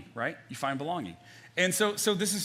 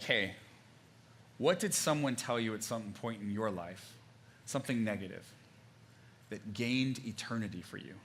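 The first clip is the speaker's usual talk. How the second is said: gentle quiet question; 5 semitones lower, 6 dB quieter than usual. Real, not acted. Preacher asking his congregation about old hurts, softly. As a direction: ask it gently.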